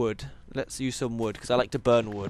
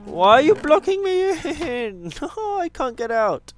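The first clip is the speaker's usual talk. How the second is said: high, slow, whining plea to a pet; high whiny plea; 10 semitones higher, slower than usual. Real, not acted. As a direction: stretch it out, pleading and amused. Cow blocks him in.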